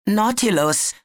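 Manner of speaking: a frightened voice catching on the name; trembling with fear. A narrator's reading. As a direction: say his name with a nervous quiver. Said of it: "hasste das ängstliche Zittern in seiner Stimme".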